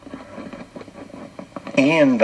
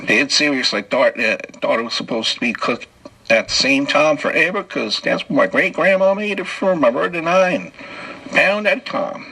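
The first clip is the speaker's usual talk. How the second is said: put-on southern accent; 4 semitones higher than usual. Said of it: "How'd you like my southern accent?".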